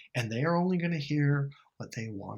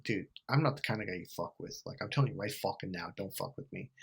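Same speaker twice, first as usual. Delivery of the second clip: low, quiet warning, dropping at the end; retold threat; 5 semitones lower, 6 dB quieter than usual. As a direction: warn him off in a lowered voice. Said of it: "I threatened him".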